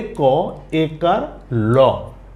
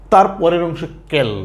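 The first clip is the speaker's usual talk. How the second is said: slow motion syllables. Shown as a demonstration. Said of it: "একটু slow মোশনে".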